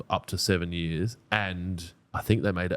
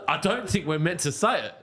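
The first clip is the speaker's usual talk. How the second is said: laughing; 9 semitones higher than usual. Real, not acted. Cracking up over the word.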